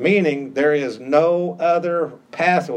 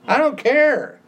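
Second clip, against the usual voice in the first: laughing dismissal; 9 semitones higher, 3 dB louder than usual. Real, not acted. Scoffing at "my truth" claims.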